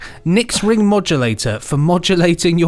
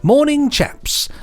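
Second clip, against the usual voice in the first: cheery greeting; 12 semitones higher, slower than usual. Acted. Reading listener's letter aloud.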